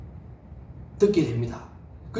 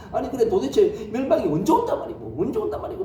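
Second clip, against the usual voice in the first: mock angry crowd; 3 semitones higher than usual.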